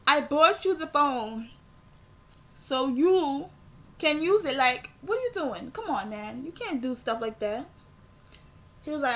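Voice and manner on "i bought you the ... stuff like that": retold scolding. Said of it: "I was so pissed".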